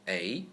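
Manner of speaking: A rising upward, second tone. Shown as a demonstration. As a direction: lift A upward.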